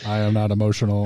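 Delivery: deadpan monotone. Pretend. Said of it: "more monotone than Amanda".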